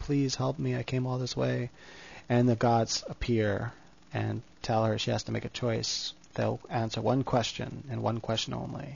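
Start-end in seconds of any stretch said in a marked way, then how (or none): 0.0-1.7 mock pleading, cried out loudly. Retelling a story, speaker voices a woman pleading to the gods; retelling a cry for help. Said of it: "She like cries out".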